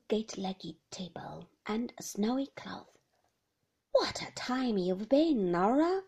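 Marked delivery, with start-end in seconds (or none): 3.9-6.0 grumbling. Acted. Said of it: "grumbled the old lady".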